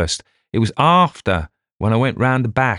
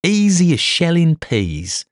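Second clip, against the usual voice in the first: much higher and louder, triumphant; gleeful bluster; 12 semitones higher, 3 dB louder than usual. Acted. Detective gleefully describing the murder to the inspector, much higher. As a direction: relish every step of the crime.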